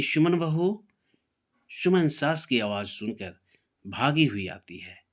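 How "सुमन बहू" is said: calls her daughter-in-law loudly from another room, pitched high; mother-in-law calling out loud to Suman. Acted. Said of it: "Sudha जी बोलती है". (ऊँची आवाज़ में पुकारना)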